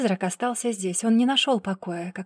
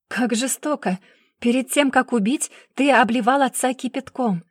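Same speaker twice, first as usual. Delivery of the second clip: raised, higher accusing cry; loud exclamation; 4 semitones higher, 3 dB louder than usual. Acted. Investigator accusing the brother, loudly exclaiming. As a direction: throw the accusation at him. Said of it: "громко воскликнула".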